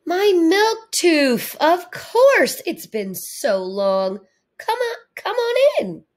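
high, slow, voice breaking with tears; choked up with joy at the reunion; tearful reunion. Acted. Author tearfully greeting the long-lost milk tooth, voice breaking.

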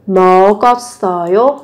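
먹었어요 run together as meo-geo-sseo-yo; linked sounds. Shown as a demonstration. Teacher modelling linking for learners, 먹었어요 said as meo-geo-sseo-yo. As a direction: carry the k of 먹었어요 over as a g onto the next vowel. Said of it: "Nối âm lên nhá".

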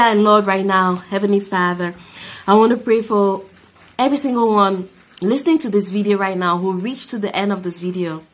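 earnest spoken prayer voice. Real, not acted. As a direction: pray over the listeners. Leads a closing prayer.

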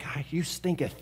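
mock King James. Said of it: "I go all King James on 'em".

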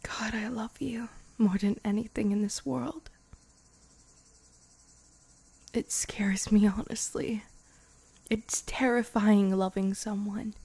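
tender whispered confession; intimate whisper. Acted. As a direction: confess it in a hushed breath.

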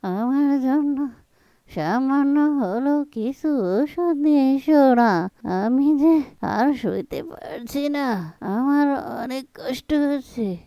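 put-on slow, frail plea from a sick old mother; weak sick pleading. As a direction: drag the words out like every breath hurts. Bedridden mother begs for medicine.

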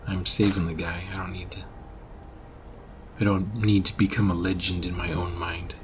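soft unvoiced whisper. Real, not acted. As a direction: say it under your breath. Sarcastic aside while playing.

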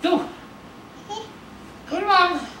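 excited cheer. Real, not acted. Cheering baby toward mother.

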